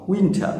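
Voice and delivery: উইন্টার ending on an open "aa"; silent final r. Shown as a demonstration. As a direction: leave off the r of উইন্টার. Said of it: "শেষে রটা উচ্চারণ করব না".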